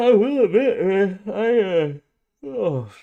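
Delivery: very loud, very slow, drawn-out yawning words. Speaker talking to viewers about reaction videos, yawning while talking. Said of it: "sorry for yawning".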